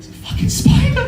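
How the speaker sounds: extremely high squeaky wail; mock panic. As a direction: squeal it like a terrified guest. Panicking guest reports the spider.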